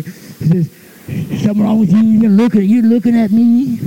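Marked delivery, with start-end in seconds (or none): 1.4-3.8 louder, pushy thug challenge; confronting bully; louder tough-guy challenge. Retold or imitated. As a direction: push him like a bully. Tough guy presses him.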